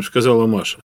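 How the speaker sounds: ordinary delivery, nothing marked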